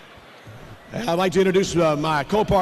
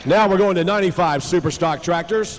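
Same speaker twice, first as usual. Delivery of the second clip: tractor pull announcer. Acted. Announcing next tractor class.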